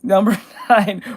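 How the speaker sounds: laughs mid-phrase; laughing. Real, not acted. Reading out the chat's meme request, laughing through it. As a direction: giggle through it.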